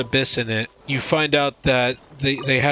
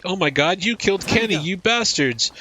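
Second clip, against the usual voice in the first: mock South Park quote; 6 semitones higher than usual. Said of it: "where they're like".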